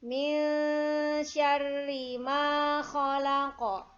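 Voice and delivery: khalaq with a rough throaty kha, chanted slowly; careful tajwid recitation. Shown as a demonstration. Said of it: "Kemudian ini kha".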